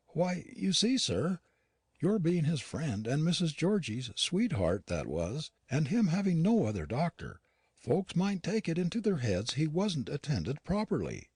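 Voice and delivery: lightly voiced housekeeper, uneasy and unwell; Yorkshire housekeeper Nancy. A narrator's reading. Nancy explains what folks might think.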